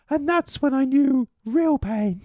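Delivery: low, slow, portentous delivery; slow mock-dramatic pronouncement; dramatic line. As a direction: drop low and draw it out gravely. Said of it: "the way you said that".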